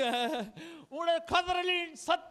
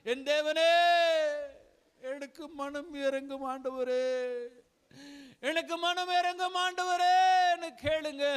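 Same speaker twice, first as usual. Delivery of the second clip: fervent sermon voice, rising and falling; impassioned Tamil preacher's call; preaching. Acted. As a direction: urge the congregation to live for God. Preacher exhorting the congregation.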